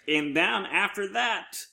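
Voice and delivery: high, slow, dramatic ominous announcer; a lightly ominous trailer voice. Acted. Host announcing the next show, slow mock-ominous trailer voice. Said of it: "you sound so ominous when you".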